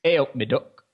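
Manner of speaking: repeating "A up me duck" in Nottingham accent. Shown as a demonstration. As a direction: copy the Nottingham greeting back. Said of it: "Say this after me".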